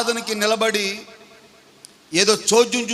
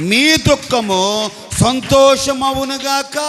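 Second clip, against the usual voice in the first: preacher's blessing; 4 dB louder than usual. Real, not acted. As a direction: declare it over the congregation, stretching key words. Proclaims blessing over congregation. (ఆశీర్వాదం ప్రకటిస్తూ సాగదీసి)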